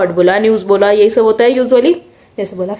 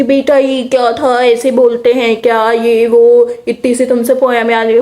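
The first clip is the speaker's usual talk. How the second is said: teacher scolding. Retold or imitated. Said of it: "मेरी teacher ने rail लगाई".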